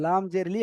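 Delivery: লাম জের লি with a short লি; no elongation on লি in লাম জের লি; short LI, no stretch. Shown as a demonstration. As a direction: spell out লাম জের লি, cutting the last vowel short. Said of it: "টান হবে না".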